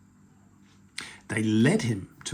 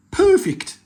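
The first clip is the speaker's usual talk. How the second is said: troll voice; 10 dB louder than usual. Acted. Troll voiced in read story.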